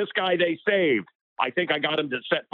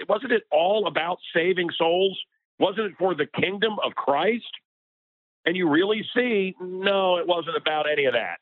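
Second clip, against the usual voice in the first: worked up; 4 semitones higher than usual. Real, not acted. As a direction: preach your outrage, climbing higher. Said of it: "I get, I get worked up".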